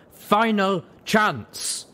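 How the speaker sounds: high, very slow bellowed command; drawn-out bark through a megaphone; barked order. Acted. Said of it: "she barked".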